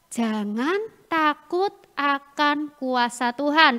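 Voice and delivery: slow, measured teaching line; slow read-out. Acted. Children's preacher reads out the last point, slow read-out. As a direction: spell out the point word by word.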